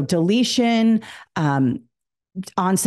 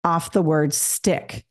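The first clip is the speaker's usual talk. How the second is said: very slow, deliberate classroom instruction; teacher instruction; much slower than usual. Shown as a demonstration. Teacher asks students to delete a sound, slow instructing. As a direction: give the drill step slowly, word by word. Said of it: "And I say".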